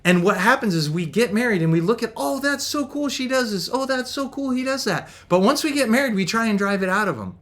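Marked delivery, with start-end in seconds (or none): 2.1-5.1 mock starry-eyed gushing, pitched up; smitten admiration. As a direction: gush like a newly smitten partner. Voices smitten couples admiring each other.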